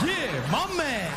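drawn-out, hammed-up black American greeting; super black. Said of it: "I was super black".

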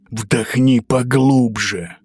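slow growling wolf. Acted. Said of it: "прорычал он".

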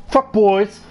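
furious yell at the civilians; angry shout. Real, not acted. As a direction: yell it at the screen.

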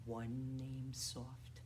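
hushed, drawn-out little voice; soft. Shown as a demonstration. Teacher to young children in a bird rhyme, soft. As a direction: say it small and gently, slowly.

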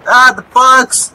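slow startled cry. Real, not acted. Sudden exclamation in game.

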